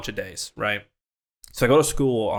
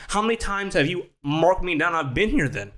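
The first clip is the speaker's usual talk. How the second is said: high-pitched retold accusation; indignant challenge; 7 semitones higher than usual.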